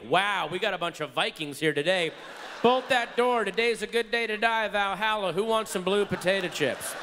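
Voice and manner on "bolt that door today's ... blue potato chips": raised, higher rallying call; mock battle cry. Crew rallying a bunch of Vikings to fly, mock battle cry. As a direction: call it out like a hammed-up Viking leader. Rallies the plane's Vikings to die.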